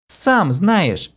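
Kira sobs at her partner; sobbing aloud. A narrator's reading. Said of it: "в голос всхлипнула девушка".

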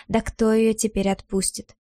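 ordinary delivery, nothing marked

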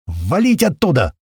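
urgent near-shout; nearly shouting. Acted. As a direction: call out the warning almost yelling. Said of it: "почти кричит Митяй".

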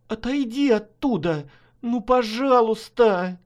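pleading. Acted. Wife begs husband step back.

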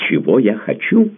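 high, loud desperate cry; a count shouting at the baroness in despair. A narrator's reading. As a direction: throw it back in despair. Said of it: "отчаянно крикнул он".

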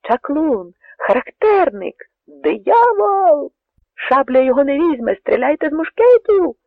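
high, loud panicked cries; frightened voices. A narrator's reading. Soldiers panicking before the Cossack, terrified shouts. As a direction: shriek in terror at a demon. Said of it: "почулися перелякані голоси".

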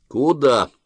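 short, sharp question; curt. A narrator's reading. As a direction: clip it off. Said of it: "коротко спросил офицер".

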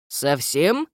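squinting, doubtful rising question; suspicious gnome question. Acted. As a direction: probe with suspicion. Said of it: "поинтересовался препод и прищурился".

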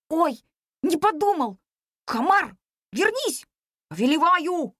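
put-on a boy's panicky command; boy calling back. A narrator's reading. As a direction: call the mosquito back, then command. Boy calls mosquito back.

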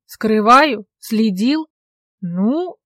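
baffled mocking echo; incredulous. A narrator's reading. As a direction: throw her words back amazed. Incredulous echoing questions.

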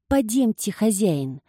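gently urging the master; soothing servant voice; coaxing servant. Acted. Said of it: "говорил Вальдо, стараясь его успокоить".

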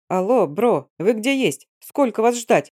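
annoyed young guy, lightly voiced; impatient bro on the line; indignant friend on phone. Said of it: "послышался возмущённый голос".

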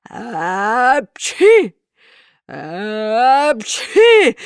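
two booming sneezes; loud sneezes. A narrator's reading. Karabas sneezes in a row, booming. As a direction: explode each sneeze with force. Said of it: "с треском чихал".

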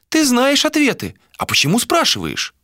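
put-on high old seer's voice; old woman voice. A narrator's reading. Old seer voiced by narrator.

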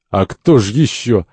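slow, wry retort; with a smirk. Acted. Second confirms it is Satan, smirking. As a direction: drawl it knowingly, amused. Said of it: "Второй с усмешкой".

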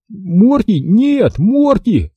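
high, desperate calling; crying out. A narrator's reading. Boy calls after rising dog, crying out. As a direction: call high without much added volume. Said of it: "кричал я".

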